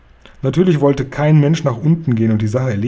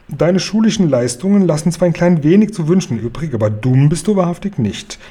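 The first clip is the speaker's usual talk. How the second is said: a hint of the gracious queen, amused; teasing queen; 3 semitones higher than usual. The queen teases Guri about school, lightly voiced.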